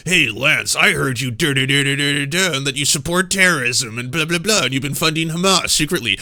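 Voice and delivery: imitating a dumb online accuser; mocking imagined accuser. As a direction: rattle it off as a nonsensical charge. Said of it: "Something nonsensical like that".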